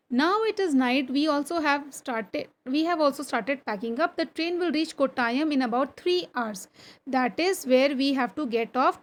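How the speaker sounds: slow, deliberate classroom reading; textbook read-aloud. Acted. Teacher reading a train journey story to pupils, slow read-aloud. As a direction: read it out slowly, phrase by phrase.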